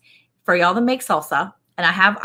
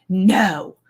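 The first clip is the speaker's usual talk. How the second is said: mild stern no. Retold or imitated. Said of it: "She was stern".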